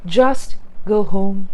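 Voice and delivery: "Just go home" slow, each word separate; a slow, careful "Just go home"; slowly and clearly. Shown as a demonstration. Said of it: "You can also say".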